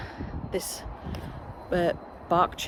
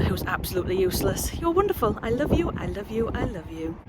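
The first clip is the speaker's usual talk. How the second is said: softer doting coo to the plants; mock love; 3 dB quieter than usual. Gardener doting on her favourite new seedlings, mock tender. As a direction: sweet-talk the seedlings like a favourite child. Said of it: "we've done the love-hate veg".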